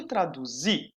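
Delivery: "traduzir" with a buzzing Z before the final stressed -ir; Z sound. Shown as a demonstration. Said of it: "eu falo com Z". ("traduzir" com som de Z)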